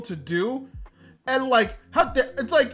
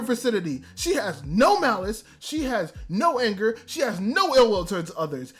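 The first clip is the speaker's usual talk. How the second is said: angry rant; 2 semitones higher than usual. Retold or imitated. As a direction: rant in outrage, landing hard on the final insult. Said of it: "Oh, the anger I felt".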